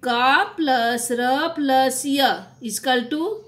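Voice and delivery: teacher dictating the sum slowly; slow spelling out. Shown as a demonstration. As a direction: slowly build का plus र plus य piece by piece. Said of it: "तो".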